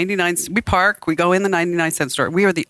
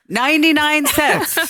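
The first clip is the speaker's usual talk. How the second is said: flat cashier answer; 10 semitones higher, slower than usual. Retold or imitated. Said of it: "the woman says".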